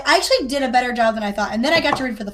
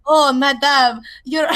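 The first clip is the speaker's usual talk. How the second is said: hammed-up French accent, louder on the "Oh"; bad French accent; 4 dB louder, slower than usual. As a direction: cringingly fake French accent. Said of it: "this is literally the line".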